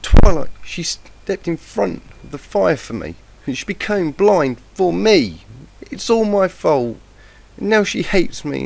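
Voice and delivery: high, loud, tearful outburst, slowing as the guilt builds; anguished scream. A narrator's reading. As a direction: scream it out, blaming yourself. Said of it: "the yellow Pegasus screamed".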